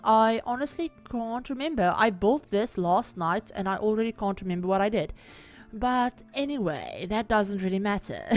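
croaky, rough-throated voice; talking through a croaky throat; frog in throat. Real, not acted. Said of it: "my voice is going really weird right now".

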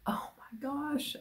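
slow, hushed marvel; awed whisper. Real, not acted. Admiring Jude's yarn, slow whisper.

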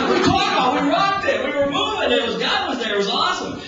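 fired-up musician raving to his wife; excited gushing. Retold or imitated. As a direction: burst out with giddy excitement. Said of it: "I'm like".

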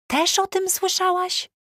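znacznie wyżej i wolno, w szoku; zszokowane pytanie. A narrator's reading. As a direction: zapytaj wolno, z wysokim zdumieniem. Mia zszokowana, szczęka opadła. (Mia w szoku pyta przyjaciółkę, wysoko i powoli)

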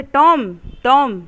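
loud call of the name. Retold or imitated. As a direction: call him to wake him. Sid calling sleeping Tom. (ज़ोर से पुकारना)

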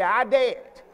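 preacher urging the congregation to repeat; emphatic declaration. Shown as a demonstration. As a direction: proclaim I dead boldly.

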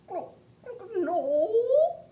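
high, loud clucking no; hen voice. Acted. Hen answers the baby bird, high and loud. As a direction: squawk it like a flustered hen. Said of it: "said the hen".

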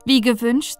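plain reading voice

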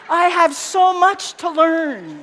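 loud, slow, laughing cry. Real, not acted. Speaker laughing at herself to the audience, loud. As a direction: laugh it out, overwhelmed.

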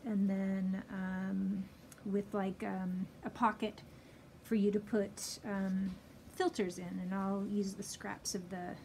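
muffled behind fabric mask; speaking with covered mouth; through a cloth mask. Real, not acted. Seen 3: Pink fabric mask covers nose and mouth through all labelled frames.

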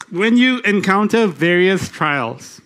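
slow, deliberate scripture reading. Real, not acted. Preacher reading James to the congregation, very slowly. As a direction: read it out unhurriedly, phrase by phrase. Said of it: "I'm gonna read it very slowly".

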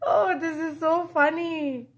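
words through leftover laughter; real amusement; laughing. Real, not acted. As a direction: still amused, talking on. Still laughing after laugh.

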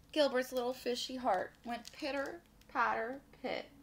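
animated storytime narration; picture-book read-aloud; children's story reading. A narrator's reading. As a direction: read it to little listeners with lilting emphasis.

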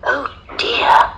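put-on high-pitched little girl voice. A narrator's reading. Little girl answering a threatening lion, high childlike voice.

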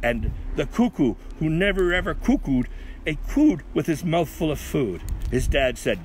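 emphatic comic verse reading; poem recital. A narrator's reading. Reader reciting Milford Dupree's bad habit, emphatic recital. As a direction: lean into the rhymes.

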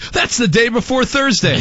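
laughing mock surprise; giggling through the line. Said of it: "spit and say".

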